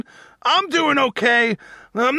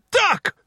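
duck noise; 9 semitones higher than usual. Pretend. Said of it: "That was a terrible duck noise".

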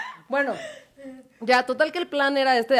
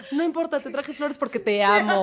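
put-on lovestruck girl; 4 semitones higher than usual. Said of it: "así de".

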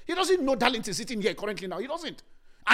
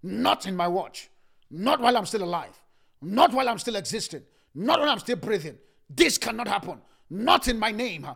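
a fighter's defiant vow, louder, line by line; 4 dB louder than usual. Acted. Preacher voicing a fighter's defiant vow to the congregation. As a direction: vow it like you'd die before you yield. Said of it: "They carry the spirit of a fighter".

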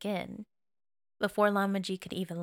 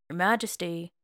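calling out. Acted. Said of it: "the man called out again".

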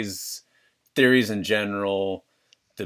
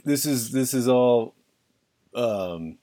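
conspiracy theorist voice; 4 semitones higher than usual. Pretend. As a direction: play a jittery paranoid believer. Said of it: "read them in my conspiracy theorist voice".

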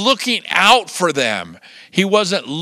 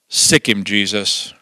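parrot command; 10 semitones lower, slower than usual. Retold or imitated. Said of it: "the parrot says".

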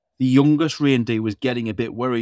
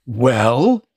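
booming Santa; 6 dB louder than usual. Acted. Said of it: "boomed Santa".

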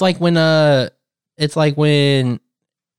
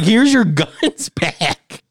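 laughing mock surrender; 4 semitones higher, much slower than usual. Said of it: "I'd be like".

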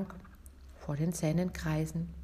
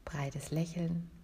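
whispered; 7 dB quieter, slower than usual. Shown as a demonstration.

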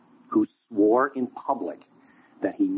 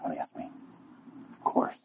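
very soft, lower muttered answer; hushed reply; 7 semitones lower, 10 dB quieter than usual. Acted. Peter answers Jesus under his breath, very soft. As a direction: mumble it low and small, ashamed.

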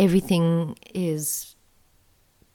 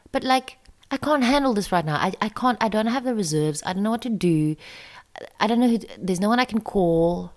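raised pitch, voice near tears, pleading with the spider; distressed pleading; 5 semitones higher than usual. Retold or imitated. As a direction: beg the spider helplessly, on the edge of crying.

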